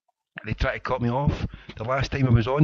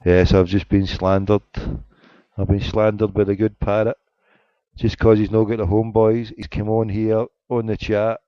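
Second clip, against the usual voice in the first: mock outrage; 5 dB louder than usual. Real, not acted. Complains of slander loudly.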